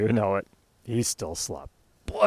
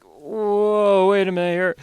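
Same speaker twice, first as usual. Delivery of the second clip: surprised; 10 semitones higher than usual. Acted. Husband wakes, realizes late.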